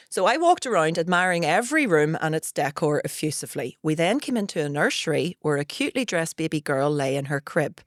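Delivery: lightly read-aloud story voice. Acted. Host reading a Reddit story to guest, light read-aloud. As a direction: read it out as a tale, barely performed.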